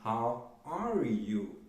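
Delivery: very slow, How are you stretched for learners; slow classroom demo; slow model question. Shown as a demonstration. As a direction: lay each word out slowly. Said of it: "que é o".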